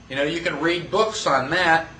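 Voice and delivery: ordinary talk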